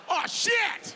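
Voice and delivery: high loud startled curse, laughing; mock outrage. Asked to press five, a high startled laughing curse.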